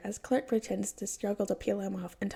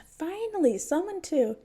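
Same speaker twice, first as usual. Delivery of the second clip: high, loud and eager; sudden loud high cry; excited kid shout; 8 semitones higher, 4 dB louder than usual. A narrator's reading. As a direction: burst out like a thrilled little kid. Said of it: "the kid screams".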